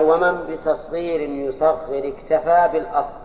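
slow chanted recitation of the verse. Shown as a demonstration. Teacher reciting the rule's verse to the class, slow chant. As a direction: stretch the verse out steadily. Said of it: "قال".

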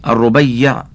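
"الربيع" with doubled r plus u, then a on the b; careful vowelling. Shown as a demonstration. Reader spelling out the companion's name, careful vowelling of "الربيع" as ar-Rubayyi'. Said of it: "بتشديد الراء المضمومة وفتح الباء".

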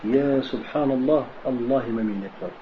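quiet, humble acceptance; calm acceptance. Pretend. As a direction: say it gently, accepting the trial from God. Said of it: "Là, tu dis".

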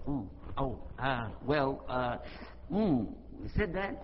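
hesitant, drawn-out stammering; taken aback. Retold or imitated. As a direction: imitate a supervisor lost for words. Supervisor taken aback by the report.

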